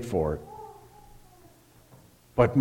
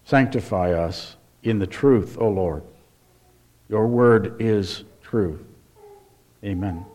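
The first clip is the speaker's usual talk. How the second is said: prayer; 3 semitones lower than usual. Real, not acted. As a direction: pray it solemnly, unhurried. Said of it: "So we pray".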